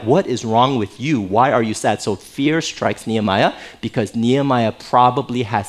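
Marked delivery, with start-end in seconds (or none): 0.0-2.0 low, stern questioning; mildly menacing king; displeased king. Acted. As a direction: confront him as an offended ruler. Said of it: "It's more like".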